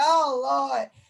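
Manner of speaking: acted-out crying. Retelling how a man started crying and then the speaker did too: retelling own crying. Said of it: "And then I started crying".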